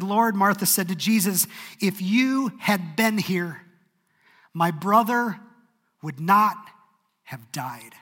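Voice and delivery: loud, high, anguished cry to Jesus; grieving plea. Acted. Martha pleading with Jesus over her dead brother, anguished. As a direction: let it break on my brother, then drop.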